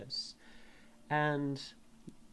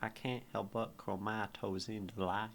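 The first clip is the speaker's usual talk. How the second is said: put-on Southern accent; 2 semitones lower, 4 dB quieter than usual. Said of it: "this poem is so wrong in a Southern accent".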